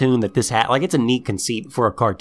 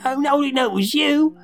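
high, pitched-up startled yelp; mock freaked out; 13 semitones higher than usual. Biker goon recognising ninja sister, high mock fright. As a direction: play a goon caught off guard. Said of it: "he's a little freaked out".

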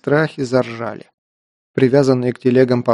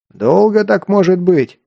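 shouting over thunder, slow; 5 semitones higher, 3 dB louder than usual. Acted. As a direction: yell it over the storm. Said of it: "проорал Герман".

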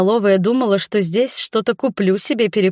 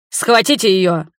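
moderately raised angry command; enraged order, partly held back; furious yell; 3 dB louder than usual. A narrator's reading. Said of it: "заорал разъярённый огневик".

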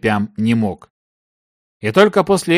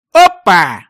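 loud, high exclamation; surprised discovery; 6 semitones higher, 7 dB louder than usual. A narrator's reading. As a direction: blurt it out on spotting something. Searcher spots something unusual. (удивлённый возглас)

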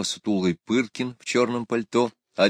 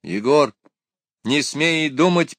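high, slow stern order; commanding; 7 semitones higher, 5 dB louder, slower than usual. A narrator's reading. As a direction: order him sharply, slowly. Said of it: "приказала Люська".

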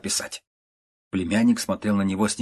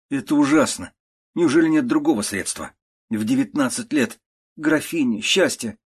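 nephew pleading; 6 semitones higher than usual. Acted.

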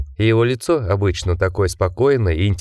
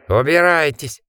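raised, forceful cry; a restrained roar to drive them off; roared order; 6 semitones higher than usual. A narrator's reading. Jack drives the creature away, roaring. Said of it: "проревел Джек".

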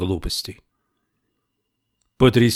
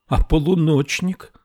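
higher, louder angry question; angry exclamation; 7 semitones higher, 3 dB louder than usual. A narrator's reading. Camilla angrily asking gendarme about the shepherd. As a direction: demand it sharply. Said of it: "сердито воскликнула Камилла".

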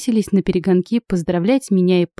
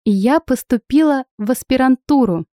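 гордо; 5 semitones higher than usual. Acted. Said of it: "обвела гордым взглядом".

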